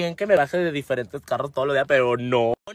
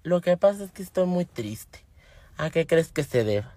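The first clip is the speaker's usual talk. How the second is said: softly imitating a neighbour turned serious; mildly grave, softer retold confession; 4 dB quieter than usual. Neighbour confiding her sadness to her, mildly serious. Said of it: "se pone en modo seria".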